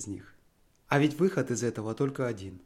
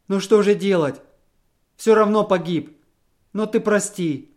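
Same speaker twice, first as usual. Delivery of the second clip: loud, higher, slowing plea for pardon; despairing plea; 6 semitones higher, 8 dB louder than usual. A narrator's reading. Husband begs his wife's pardon, despairing. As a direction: beg her with the last of your strength.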